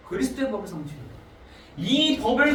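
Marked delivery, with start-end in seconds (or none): 0.1-1.0 "그리스도의 법을 성취해라" repeated softer, falling, stress on 그리스도의; softly repeated. Shown as a demonstration. Preacher quietly repeating the verse to the congregation, soft. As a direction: echo "그리스도의 법을 성취해라" quietly to let it sink in. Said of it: "갈라디아서 육 장 이 절에 보니까".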